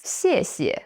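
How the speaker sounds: xie xie, first falling, second neutral. Shown as a demonstration. Teacher introduces thank you in Mandarin. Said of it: "Xie, falling tone".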